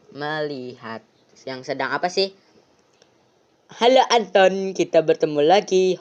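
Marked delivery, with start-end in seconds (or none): 3.8-6.0 lightly voiced creepy stranger greeting the boy; a menacing night guest; sinister visitor. Mysterious visitor greets Anton. (suara tamu misterius yang mengancam)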